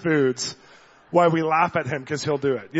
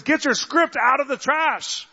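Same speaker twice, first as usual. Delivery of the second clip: intense command; 9 semitones higher, slower than usual. Retold or imitated. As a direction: drive each word home across the café. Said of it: "I had to say it intensely".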